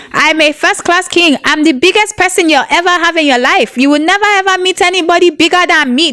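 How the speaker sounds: a hint of a king gloating over his wife; boastful king. Wife imitating her boastful king husband. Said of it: "That's how he talks".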